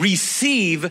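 emphasizing 'receive'. Speaking to a group of listeners, stress on 'receive'. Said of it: "I'm going to emphasize that one word".

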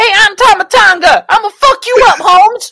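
very high, loud, barked tough-talking voice. Mocking a wrestler's promos by imitating him: high-pitched Tama Tonga impression. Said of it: "You got a really high voice".

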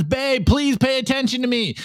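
acted, high, tearful, crying, pleading voice. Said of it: "And the girl's crying".

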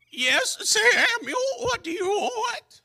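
very high, cracking, breaking adolescent voice. Retelling young David answering Samuel, voice cracking like a young girl. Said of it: "Voice cracking like a 10-year-old girl".

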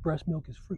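in a whisper. Acting out what they'd tell a woman right before the moment; whispered line. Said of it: "I'm going to whisper in it".

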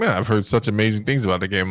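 normal talking voice

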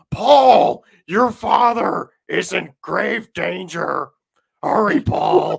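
very loud, creepy, raspy, high, slow, drawn-out calling. Describing a movie scene where Bigfoot calls to a sleeping kid, creepy Bigfoot calling. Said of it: "sounds like some pervert in a fucking white van calling to him".

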